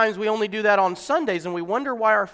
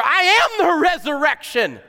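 a hint of Jesus, higher, stress on "am"; lightly voiced Jesus; 7 semitones higher, 5 dB louder than usual. Jesus answers Martha, lightly voiced. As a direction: proclaim it as Jesus, "am" leaned on. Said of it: "Jesus said to her".

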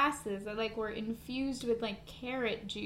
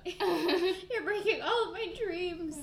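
drawn-out, high laughing lament; slow, higher, hammed-up disappointment; mock heartbreak; 6 semitones higher, slower than usual. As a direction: wail it playfully, laughing through it. Mock-hurt reaction to carrot myth.

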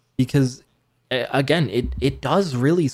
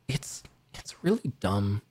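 whispering; 6 dB quieter than usual. Real, not acted. Sinking verdict on the movie.

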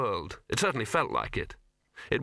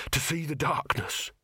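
panting; 4 semitones higher than usual. A narrator's reading. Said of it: "he panted".

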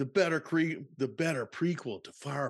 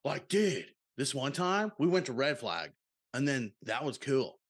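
bro voice. Shown as a demonstration. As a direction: talk like a chill bro. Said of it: "just do it like this".

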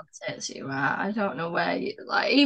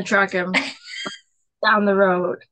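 laughing; 2 semitones lower than usual. Real, not acted. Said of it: "It wasn't that dramatic".

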